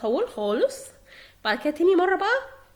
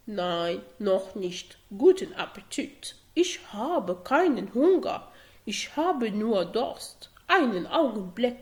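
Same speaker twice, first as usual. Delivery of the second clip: voicing Max; 4 semitones lower than usual. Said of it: "حاولت اقلد لكم صوت ماكس".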